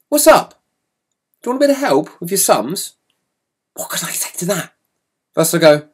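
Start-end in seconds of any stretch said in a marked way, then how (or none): 0.1-2.9 falsely friendly brother. Retold or imitated. Brother offering help.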